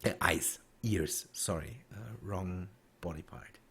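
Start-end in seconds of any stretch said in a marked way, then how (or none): 1.3-3.6 breathy under-the-breath aside; embarrassed whisper. Real, not acted. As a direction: mutter the correction to yourself. Self-correcting aside under breath.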